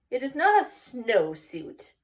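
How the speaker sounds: correcting a friend, slowly and loudly; indignant declaration. Acted. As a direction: set the record straight firmly. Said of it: "declared Scapito".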